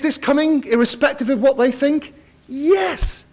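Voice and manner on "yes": high shouted "Yes!"; mock answer. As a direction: answer for them in a put-on voice.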